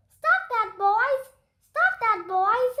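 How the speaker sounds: high, loud repeated scold ringing back; echo yelling back. Acted. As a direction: echo it off the walls. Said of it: "yelled the gym".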